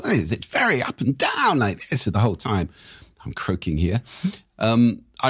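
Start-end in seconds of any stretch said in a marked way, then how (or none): 0.0-2.7 lilting up-and-down imitation of Latin speakers; imitating sing-song tune. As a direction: swing the pitch up and down like this. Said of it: "people are like".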